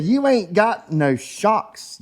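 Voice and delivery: imitating Thug Life. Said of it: "He said".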